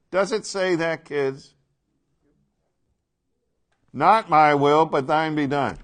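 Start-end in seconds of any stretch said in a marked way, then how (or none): 3.9-5.8 "Not my will" loud and raised, "thine" stressed; emphatic contrast. Acted. Preacher pressing the contrast on the kids, loud and emphatic. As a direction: drive home MY against THINE. Repeating verse to drive contrast home.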